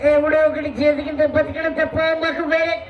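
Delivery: lightly voiced Prabhas, like a phone call in a bathroom; Prabhas impression. Comic retrying Prabhas voice after throat gave out. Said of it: "ఇది ప్రభాస్ గారి వాయిసా?".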